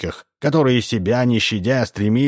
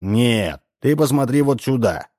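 indignant; 5 semitones higher than usual. Acted. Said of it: "сказал Удалов возмущённым голосом".

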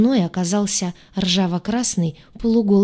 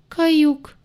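higher, croaked in terror; hoarse croak; 8 semitones higher than usual. A narrator's reading. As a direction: croak it pressed to the wall. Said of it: "прохрипела я".

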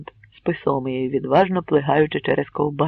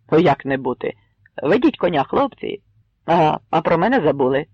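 joking. Acted. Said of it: "пожартував Кремезний".

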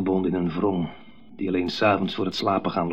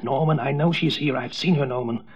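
higher, shrill mother's voice, moderately raised; high, thin cry; 4 semitones higher than usual. Acted. Mother calling to Norman in the night, high and shrill. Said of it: "schreeuwde hoog, schel, dun in de nacht".

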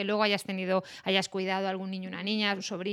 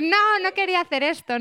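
higher, louder dismayed protest; mock dismay; 9 semitones higher, 5 dB louder than usual. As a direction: recoil at your own words. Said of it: "Y dices".

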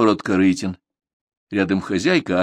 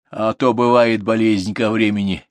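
snorting; 2 semitones higher than usual. Acted. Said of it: "фыркнула жена".

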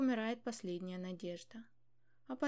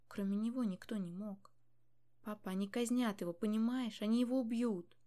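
desperate pleading; 4 dB louder than usual. Acted. Daughter begs king father.

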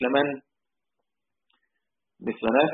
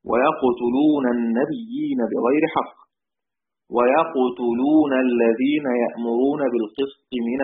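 slow, measured recital of the verse; slow Quran recitation; slower than usual. Shown as a demonstration. Teacher quoting the Quran verse to students in slow recital. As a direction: recite the verse slowly and deliberately. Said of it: "المقصود هو قوله تعالى".

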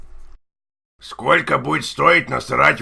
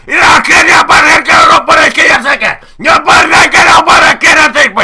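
loud gibberish shouting; 12 semitones higher, 9 dB louder than usual. Pretend. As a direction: yell fake words, much higher and louder. Prank caller shouting fake gibberish.

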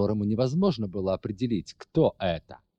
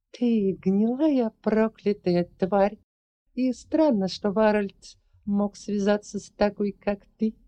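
angry shout; 10 semitones higher than usual. Acted. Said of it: "закричала Ларри".

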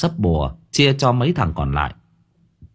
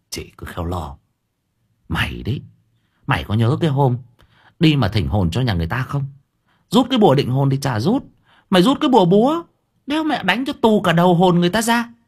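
mocking brother; 6 semitones higher, faster than usual. Brother mocking his sister's mistake, building higher. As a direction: tease her, rising much higher.

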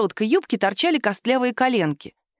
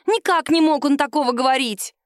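raised indignant cry; shrill protest; 6 semitones higher than usual. A narrator's reading. Woman insists to the captain her lover said no such thing.

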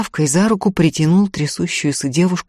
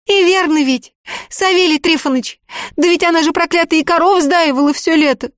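put-on a much higher, anxious young woman's voice; pleading village girl; 12 semitones higher, 3 dB louder than usual. A narrator's reading. The girl begs the sorcerer for a spell, anxious pleading.

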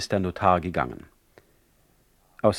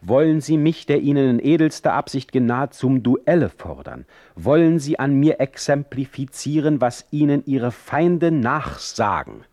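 higher, louder indignant outburst; offended young visitor turning on his host in anger; with understandable anger; 7 semitones higher, 5 dB louder than usual. Acted. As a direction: fire back angrily at the insult. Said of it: "mit verständlichem Zorn".

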